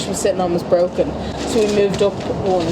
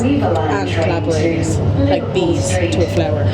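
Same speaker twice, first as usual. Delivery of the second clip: slow, theatrical reading with gasps; dramatic horoscope read; slower than usual. Acted. Reading the Metro horoscope to her friend, slow and theatrical. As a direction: read it like an oracle, savouring each line.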